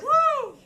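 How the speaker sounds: loud high cheer; high whoop. Real, not acted. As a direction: whoop it up like a fan. Cheer for the UK crowd.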